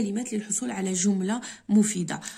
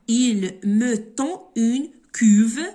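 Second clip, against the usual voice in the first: slow dictation; 8 dB louder, much slower than usual. Shown as a demonstration. Dictates exercise slowly.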